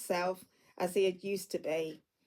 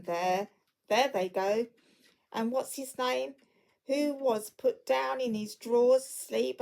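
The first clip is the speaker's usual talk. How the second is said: between laughing and crying; 3 semitones higher than usual. Acted. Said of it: "a most extraordinary voice between laughing and crying".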